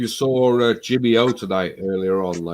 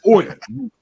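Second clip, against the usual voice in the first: authoritative insult; 7 semitones higher than usual. Retold or imitated. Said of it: "say it with some fucking authority".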